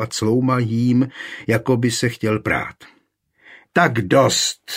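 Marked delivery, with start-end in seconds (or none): 3.7-4.7 higher, louder shriek. A narrator's reading. Markéta shrieks to stop the quarrelling men, loud and high. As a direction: cut the men off with a cry. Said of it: "zaječela Markéta".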